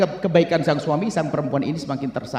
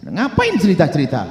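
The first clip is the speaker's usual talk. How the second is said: scolding; 4 semitones higher, 4 dB louder than usual. Real, not acted. Scolds those who tell past sins.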